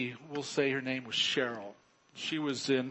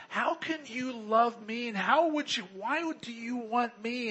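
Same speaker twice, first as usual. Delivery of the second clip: imitating Cheryl; 8 semitones higher than usual. Voicing doubting bride Cheryl.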